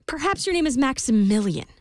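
rising, hopeful queen guesses; hopeful guessing. A narrator's reading. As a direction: try each name hopefully. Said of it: "she said".

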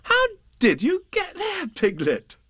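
put-on high, surprised young boy's voice; light high boyish exclamation; Christopher Robin. A narrator's reading. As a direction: call out the question like a child, pitched well up. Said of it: "in his ordinary voice".

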